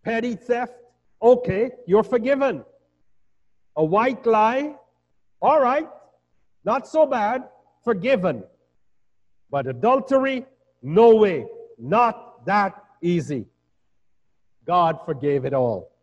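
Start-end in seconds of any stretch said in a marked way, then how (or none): 0.0-8.4 higher-pitched, offhand pardoning; mock lenient verdicts. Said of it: "God did not say". 9.5-13.5 emphatic, acted refusal to pardon; mock refusal. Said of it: "God did not say".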